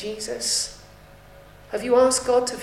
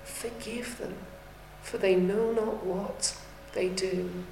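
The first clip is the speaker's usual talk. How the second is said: cries out; 7 dB quieter, slower than usual. Acted. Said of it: "and he cries out".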